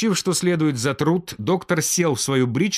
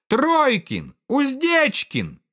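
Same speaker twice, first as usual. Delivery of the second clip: much higher eager calls; children call out guesses; children shouting; 13 semitones higher, much slower than usual. A narrator's reading. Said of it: "кричали из детской".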